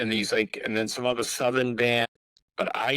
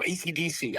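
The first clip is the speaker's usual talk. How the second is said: small, higher voice, mimicking being scared; retold scared answer; 6 semitones higher, 4 dB quieter than usual. Scared guest answers the intimidating photographer, in a timid higher voice. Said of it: "I was, like, so scared".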